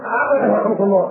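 mock eager blessing that cuts in mid-sneeze; blurting too early. Shown as a demonstration. Preacher mimicking someone who blesses a sneezer too soon, hurried. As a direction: rush the blessing in before the sneeze is done. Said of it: "استنى، ما كملتش".

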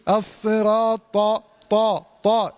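heavy ط in طا, stopped with no air escaping; held-breath ta. Shown as a demonstration. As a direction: lock off the breath on each heavy طا. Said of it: "احبس".

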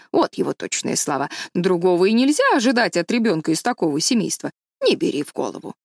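emphatic busybody with swooping pitch; lightly voiced opinionated village matron; gossipy, supportive neighbour. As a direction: report the gossip with indignant emphasis.

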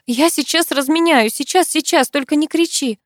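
ordinary delivery

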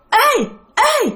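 imitated high girlish cry; ghostly girl's call. Storyteller mimics the girl's voice he heard, high eerie call. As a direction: squeal it out high and echo-like. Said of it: "cái tiếng của con gái".

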